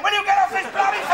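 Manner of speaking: quick, exasperated outburst; irritated demand. Acted. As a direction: rush it out in irritation. Row over a public phone.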